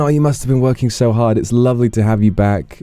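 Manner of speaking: very high, thrilled praise, easing down gradually; excited congratulations. Real, not acted. Congratulating a viewer admitted to dream school, thrilled. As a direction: gush with delight, then settle.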